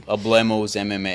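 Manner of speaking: 'Hablemos' said as uh-BLAY-mose, Americanized; American accent Spanish. Shown as a demonstration. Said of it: "say it like a gringo would say".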